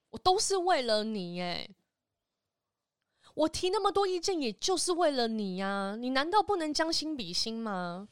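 hammed-up nagging mother; imitating mom. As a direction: lay the guilt on heavy, like mom. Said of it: "我妈就会讲这种话".

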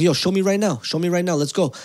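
retold furious demand to the manager; retold angry shout. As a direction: challenge him to show the tape now. Angrily challenging the manager.

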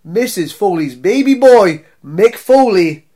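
slow, loud ring announcer call. Acted. Announcer-style name introduction.

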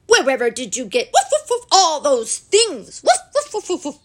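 high, loud woofs breaking into the question; astonished doggy outburst; amazed talking dog. A narrator's reading. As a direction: marvel loudly between excited yaps.

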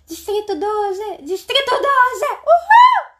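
high, loud crowd chant building; crowd cheer. Retold or imitated.

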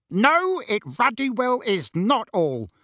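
high-pitched, indignant bellow; angry bellow. A narrator's reading. Uncle stops Harry from leaving, angry bellow. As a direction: burst out high on the first word, bellowing uncle. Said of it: "bellowed Uncle Vernon".

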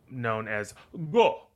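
slow, elevated French-tinged Go; French accent. Acted. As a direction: say Go with French flair. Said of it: "French accent vibes".

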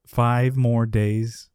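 very slow, spaced-out words; deliberate delivery. Retold or imitated. Elaine looks at Jerry amid everything, slow pointed delivery. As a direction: draw out each word of the count. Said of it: "She just says".

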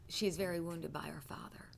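soft unvoiced whisper of the Spirit's words; whispered revelation. Preacher retelling the Holy Spirit's quiet word to her, whispered. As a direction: hush it like a secret told to you. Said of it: "he said to me".

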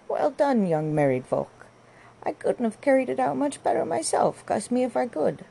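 husky onlooker. A narrator's reading. Neighbour calls from the garden gate, husky. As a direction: call out heartily in a high put-on voice. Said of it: "The voice, which was husky".

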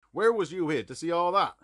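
high, loud frightened outburst; frightened cry. A narrator's reading. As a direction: cry it out in alarm. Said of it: "he cried".

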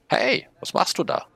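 hohe, quiekige Schneckenstimme; very high little snail voice, curious; kleine Zauberschnecke. A narrator's reading. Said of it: "fragt sie mich". (hohe Stimme der kleinen Schnecke, neugierig)

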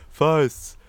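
"Fists" with an eye vowel, like "Feists"; sounds like "Feists". Shown as a demonstration. Podcaster showing the misheard gang shout, "Fists" as "Feists". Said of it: "was ja dieser Gangshout, der drin ist".

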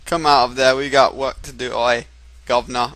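loud, hammed-up British accent; overdone "oi, governor" British accent; a stab at a British working man's accent; put-on British accent. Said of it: "in his accent".

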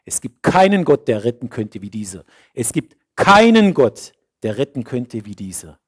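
king's proclamation. A narrator's reading. King cries out praise after the three walk free. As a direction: ring it out like a king praising God. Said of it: "Nebukadnezar rief".

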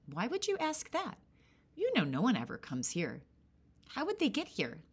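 put-on high innocent-sounding old woman; old hag voice. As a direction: play dumb, sweetly.

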